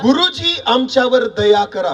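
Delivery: slow, drawn-out imitated plea; mild acted cry for help; calling out. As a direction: call out slowly, as if to someone far off. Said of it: "हाक मारली आणि ओरडून म्हटलं".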